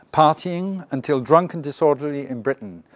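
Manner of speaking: light British English accent, a touch showy; best English accent. Shown as a demonstration. Teacher showing students a British English accent. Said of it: "je vais mettre mon meilleur accent anglais pour vous".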